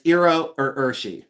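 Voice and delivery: "Iro or Urshi" again as EE-roh or UR-shee, a little firmer; own pronunciation. Shown as a demonstration. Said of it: "that's the way I say it".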